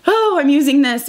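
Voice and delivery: a hint of a chirpy product presenter; makeup reviewer. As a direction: briefly slip into mock reviewer mode. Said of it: "The makeup reviewer in me is like".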